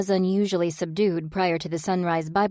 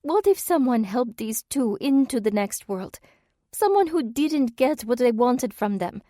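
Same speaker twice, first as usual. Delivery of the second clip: rising voice; 6 semitones higher than usual. A narrator's reading. Friend voices her fear of murder, voice rising higher. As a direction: voice lifted higher, anxious and urgent. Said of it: "Her voice rose".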